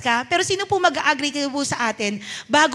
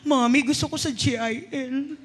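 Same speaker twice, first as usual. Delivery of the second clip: put-on child's voice; 3 semitones lower than usual. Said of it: "Umiiyak yung anak ko".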